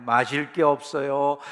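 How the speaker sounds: slow, drawn-out listing of grievances; mock complaining. Israelites in the wilderness grumbling about food, slowly complaining. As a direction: imitate grumblers, dragging out each complaint. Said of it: "내내 불평하고 원망하잖아요".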